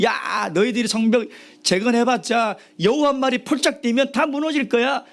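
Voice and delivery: high-pitched scoffing taunt; mocking jeer. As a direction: jeer at them like scornful onlookers. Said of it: "사람들이 비웃으면서요". (높은 음으로 비웃듯 조롱하는 말투)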